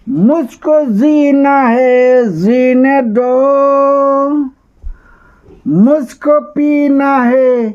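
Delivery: put-on drunk filmy plea. Shown as a demonstration. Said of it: "गलत हो गया".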